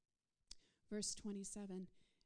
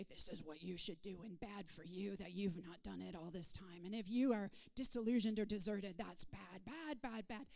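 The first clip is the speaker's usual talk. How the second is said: scolding voice; 3 dB louder than usual. Acted. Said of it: "I'm not here to say".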